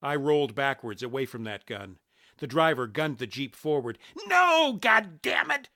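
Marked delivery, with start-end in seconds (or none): 4.2-5.7 high, loud furious protest; shouted curse. A narrator's reading. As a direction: yell it at a fleeing accomplice. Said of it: "Shotgun shouted".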